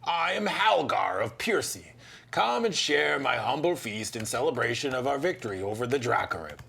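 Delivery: a hint of a proud fighter greeting a Pathfinder; hearty host. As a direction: welcome the guest like an old soldier. Voices Halgar the host.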